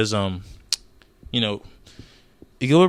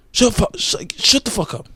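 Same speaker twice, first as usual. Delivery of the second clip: "shut the fuck up" yelled much higher and louder; yelling; 11 semitones higher, 4 dB louder than usual. Real, not acted. Vlogger yelling at commenters, high loud shout. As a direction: shout them down.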